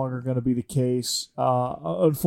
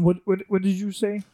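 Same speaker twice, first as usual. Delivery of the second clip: pitched-up, put-on young quarterback voice; Patrick Mahomes voice; 6 semitones higher than usual. Quarterback caller crashing the show, higher put-on voice. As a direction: play the star quarterback dropping in, raised voice. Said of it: "uh, Patrick".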